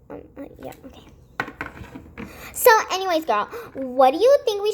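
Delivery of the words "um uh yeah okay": barely voiced um and uh; hushed hesitant filler; muffled awkward mumble. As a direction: trail off under your breath.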